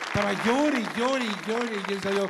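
hammed-up infant wailing; baby crying. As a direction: wail it like a newborn crying. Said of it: "Así lloraba yo de niño".

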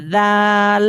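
জাল with the tongue tip held between the teeth, th-like. Shown as a demonstration. Teacher demonstrates the letter sound to students. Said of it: "দুই দাঁত দিয়ে চেপে ধরে উচ্চারণ করি".

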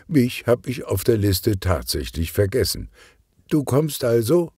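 put-on young niece asking eagerly; girl's voice.

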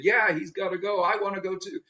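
put-on high eager kid voice; little brother. Lecturer plays the little brother wanting to go to war, high and eager. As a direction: pipe up like an excited little boy. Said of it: "And the little brother is saying".

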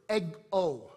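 "ego" with the weight on the final O; "ego" with a drawn-out, stressed O. Shown as a demonstration. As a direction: say "ego" leaning on its last syllable. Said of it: "the emphasis on the O".

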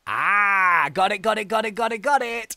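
loud, high, excited got it; excited shouting. Real, not acted. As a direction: shout it as you finally grab it. Excited grab in game.

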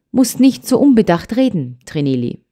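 friendly admonishing. Acted. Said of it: "mahnte die Großmutter freundlich".

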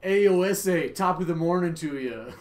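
loud hammed-up Irish "top of the morning to ya"; mock Irish accent. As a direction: belt out a cartoon Irish greeting. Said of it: "how often do your friends go".

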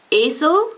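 esel with a closed first e and a schwa; Swiss German esel. Shown as a demonstration. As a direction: esel demonstrated for learners. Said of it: "Then we have words like".

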